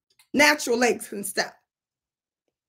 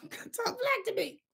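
laughing aside; 9 semitones higher, 11 dB quieter, slower than usual. Real, not acted.

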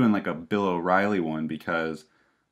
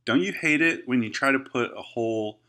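infomercial. Acted. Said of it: "Why do you sound like you're in an infomercial?".

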